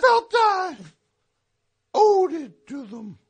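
slow, heavy tragic declaiming; grand tragic wailing. Acted. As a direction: declaim it like a doomed hero. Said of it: "my dramatic monologue".

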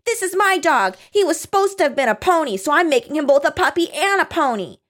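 put-on high childish insistence, fast at first; cling to the dog like a stubborn kid; defiant child. Reading Bart claiming his puppy, high and defiant.

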